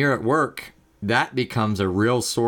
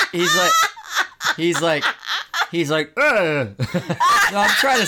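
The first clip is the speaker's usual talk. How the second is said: giggling, pitch jumping high; cracking up mid-sentence; laughing; 11 semitones higher, 3 dB louder than usual. Real, not acted. Laughing while voicing surfer.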